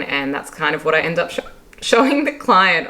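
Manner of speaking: hiccup jolts mid-sentence. Real, not acted. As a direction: caught by a hiccup. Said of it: "Oh my goodness, I need to go drink some water".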